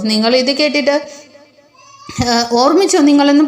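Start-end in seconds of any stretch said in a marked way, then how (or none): 2.5-3.4 mild angry warning. Retold or imitated. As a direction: lightly voice the angry brother-in-law. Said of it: "ദേഷ്യപ്പെട്ട് പറഞ്ഞിട്ട്". (ദേഷ്യത്തോടെയുള്ള മുന്നറിയിപ്പ്, നേരിയതായി)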